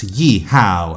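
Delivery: loud, lightly played American cowboy whoop. Critic imagining a miscast cowboy film, mock American cowboy. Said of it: "play an American cowboy".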